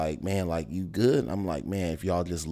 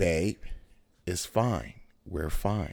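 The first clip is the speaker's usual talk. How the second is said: level, put-on calm, soothing monotone. Retelling how Nicole tried to settle someone down, the speaker is imitating Nicole's calm voice. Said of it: "She tried to do a calm voice".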